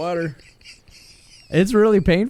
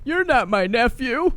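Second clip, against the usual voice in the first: imitating Mike; 8 semitones higher, slower than usual. Voicing Mike's confused reply.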